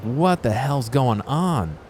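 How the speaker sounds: yelling at the restocker in disbelief; retold disbelief. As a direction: shout it in baffled disbelief. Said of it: "but I was like".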